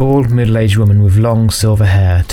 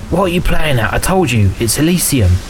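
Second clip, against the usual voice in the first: indignant disbelief; 6 semitones higher than usual. Acted. Indignant at being refused.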